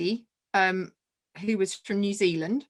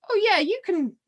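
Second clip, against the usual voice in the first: excited high quote; 10 semitones higher than usual. Retold or imitated. Retelling Rebecca picking her.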